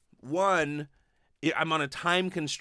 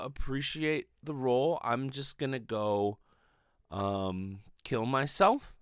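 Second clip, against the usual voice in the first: mock casual; much slower than usual. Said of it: "casually just come out and be like".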